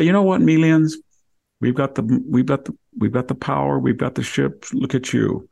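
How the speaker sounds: high, cocky bullying taunt; arrogant boast. Retold or imitated. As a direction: lord it over the weaker side. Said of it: "you can say".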